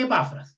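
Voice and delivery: Epafras with the stress on the first A, É-pa-fras. Shown as a demonstration. Teacher settling how to say a name: Epafras stressed on the first A. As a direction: say Epafras as ÉPafras, leaning on the opening A. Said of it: "Pongamos el acento ahí en la primera A".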